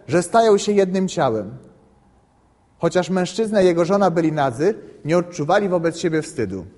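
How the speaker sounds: measured, solemn reading of scripture; a priest reading Genesis aloud to his students. Acted. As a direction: read it out like a lectionary passage.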